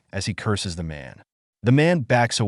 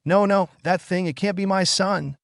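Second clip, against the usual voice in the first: horrified; 9 semitones higher than usual. A narrator's reading. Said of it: "still horrified".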